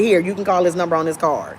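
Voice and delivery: fast, dismissive agent; curt brush-off. Retold or imitated. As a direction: rattle it off like you don't care. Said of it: "they say it just like that".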